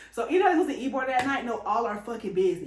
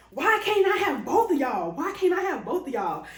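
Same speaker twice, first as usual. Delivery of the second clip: imitating; 6 semitones higher, 5 dB louder than usual. Quoting girl's drunk come-on.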